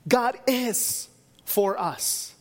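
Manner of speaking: "God" said slow with weight, the rest falling away; drawn-out take, "God" punched; stress on GOD. Shown as a demonstration. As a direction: hit "God" first and hardest. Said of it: "you emphasize one word".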